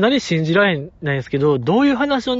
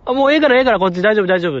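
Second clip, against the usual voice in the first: put-on brushing-off old man; 4 semitones higher, 3 dB louder, faster than usual. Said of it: "もうジジイがそこはもうなんか".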